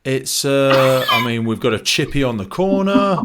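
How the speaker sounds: deadpan sarcasm. Retold or imitated. Sarcastic reply to ignorant question.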